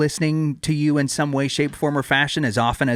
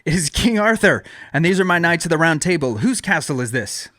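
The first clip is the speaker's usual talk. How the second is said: higher, proud royal proclamation; King Arthur; 5 semitones higher than usual. Acted. Arthur announces himself to the castle guard, proud and raised. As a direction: announce yourself grandly as king. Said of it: "I will be Arthur".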